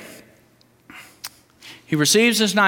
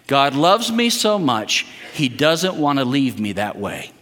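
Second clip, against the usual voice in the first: statement for repeating; 4 semitones lower than usual. Shown as a demonstration. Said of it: "I want you to say it right back".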